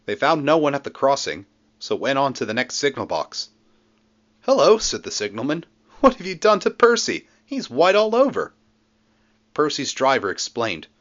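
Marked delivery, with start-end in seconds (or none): 4.4-4.8 high, bright signalman greeting; a cheery railway signalman. A narrator's reading. 6.0-8.5 high, surprised signalman; a startled railway signalman asks. A narrator's reading.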